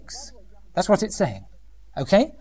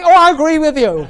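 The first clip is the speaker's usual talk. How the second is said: higher, louder gushing agreement; mock gushing older woman; 8 semitones higher, 6 dB louder than usual. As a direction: ham up a gossiping old lady siding with her. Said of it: "some older women immediately say".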